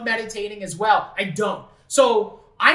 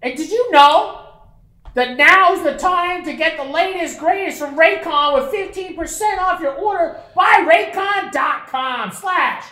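ad read; 3 semitones higher, slower than usual. Acted. Reads ad promo code.

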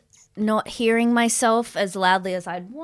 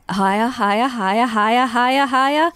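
rising calls; 4 semitones higher, 5 dB louder than usual. Real, not acted. Guiding volume up.

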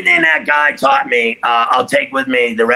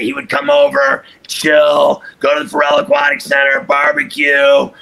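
excited. Real, not acted. Hyped-up party story about Big Daddy.

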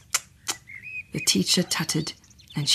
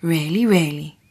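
smiling. Acted. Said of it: "Dina smiled".

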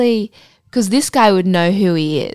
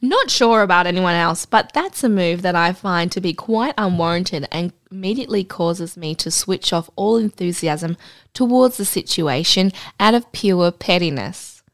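measured read-aloud storytelling voice; story narration. Acted. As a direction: read the anecdote aloud, composed. Reads out an anecdote.

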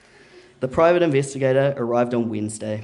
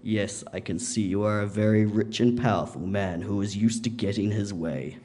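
calm, measured, unhurried reply; quiet and chill; 2 semitones lower than usual. Retold or imitated. Dad answering the yelling drunk, quiet and chill. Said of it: "my dad replies real quietly, real chill".

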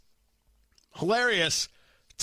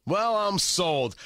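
mock sold; 2 semitones higher, slower than usual. Sarcastic reaction to played clip.

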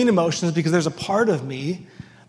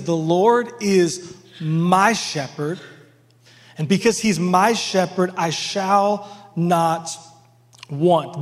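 slow scripture reading; slower than usual. Acted. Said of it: "He says".

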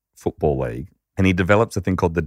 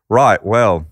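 mild Trump voicing; 4 dB louder than usual. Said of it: "I'm not gonna do a Trump impression".

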